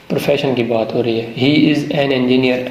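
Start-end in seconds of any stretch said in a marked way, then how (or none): 1.4-2.6 He is an engineer said very slowly; slow dictation. Shown as a demonstration. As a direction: read it slowly like a teacher at the board. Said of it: "انجینئر، الف کی". (آہستہ آہستہ لکھوانا)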